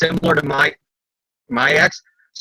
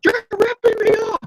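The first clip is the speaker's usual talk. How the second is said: high, whiny accusing; high school whine; slower than usual. Retold or imitated. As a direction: whine it like a teenager. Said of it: "very high school teenagers".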